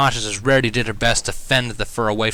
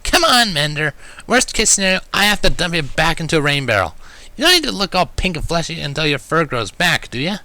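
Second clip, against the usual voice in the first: much higher, louder tomboy jab; blunt teasing; 8 semitones higher, 3 dB louder than usual. A narrator's reading. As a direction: needle him with a grin. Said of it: "she reasoned bluntly".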